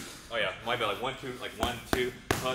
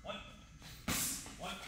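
boxing coach calling combos; 2 semitones higher, much slower than usual. Acted. Coach calling punch combos on pads.

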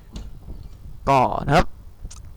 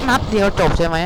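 higher, louder scoffing echo of the boast; mock disbelief; 5 semitones higher, 4 dB louder than usual. Gamer mocking the enemy's one-shot claim, scoffing. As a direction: throw the boast back, doubting it.

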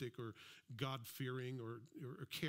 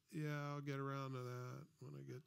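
slothful. Retold or imitated. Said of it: "not slothful".

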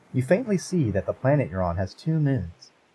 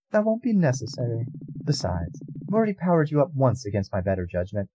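firm goddess; 4 semitones higher than usual. Acted. Goddess refuses.

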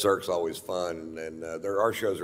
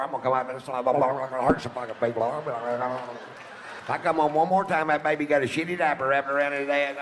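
mock redneck woman; 7 semitones higher than usual. Comedian mocking the chattering woman behind him, hammed-up rant. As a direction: sneer it like a trashy Vegas loudmouth.

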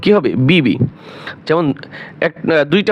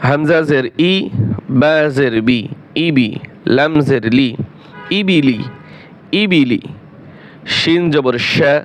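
measured singsong spelling, then the blended word; Qaida spelling drill. Shown as a demonstration. Teacher joins letters into words for learners, measured drill recitation. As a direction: spell it out evenly, let the joined word fall.

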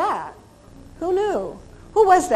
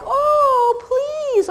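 high, drawn-out pleading whine; 4 dB louder than usual. Retold or imitated. Imitating a dog pleading to go out, high and long.

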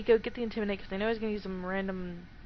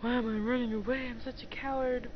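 voicing game grunt; 4 semitones higher than usual. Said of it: "he's like".

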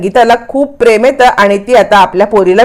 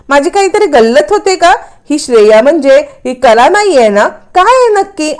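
thinking aloud in disbelief, voice raised in pitch; suspicious musing; 2 semitones higher than usual. Acted. Husband's suspicious inner monologue.

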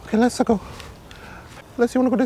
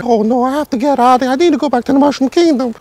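mock panic; 2 semitones higher, 3 dB louder than usual. Acted panic at changing.

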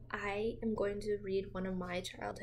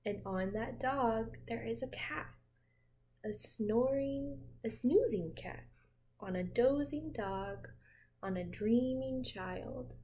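put-on reading to children. A narrator's reading. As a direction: lull a child with a gentle read-aloud. Reading picture book to child.

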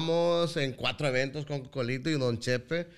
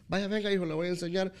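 teacher voice; 4 semitones higher, faster than usual. Retold or imitated. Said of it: "yo tenía una maestra que".

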